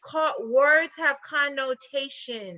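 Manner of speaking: slow, deliberate insistence on the point; emphatic spelling-out. Real, not acted. Arguing over English language and meaning, slow and emphatic. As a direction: spell it out slowly, word by word.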